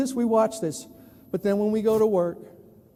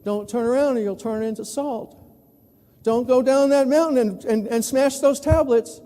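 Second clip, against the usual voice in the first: commanding voice; 3 semitones higher, 5 dB louder than usual. Retold or imitated. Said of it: "little stories".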